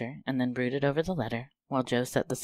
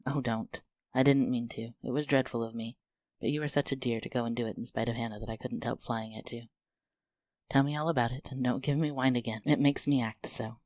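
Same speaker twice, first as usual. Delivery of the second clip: breathless. Acted. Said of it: "saying breathlessly".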